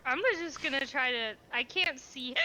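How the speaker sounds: hiccups breaking the words. Real, not acted. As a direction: keep hiccuping as you talk. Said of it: "it's happening to me".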